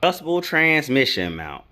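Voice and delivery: incredulous echo of the company's answer; exasperated repeat. Real, not acted. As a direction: throw the words back, fed up. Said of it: "why do y'all offer this?".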